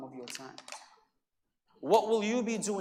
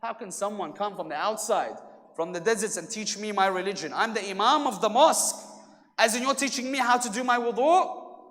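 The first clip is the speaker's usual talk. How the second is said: retold indignation building to a raised voice; mock outrage, rising in volume to the last question; outraged; 4 dB louder than usual. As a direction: start restrained, grow louder and more affronted. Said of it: "raised my voice on him".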